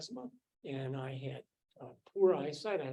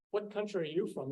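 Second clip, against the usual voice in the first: lightly imitated southern US drawl, higher pitch; 4 semitones higher than usual. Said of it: "in her southern drawl".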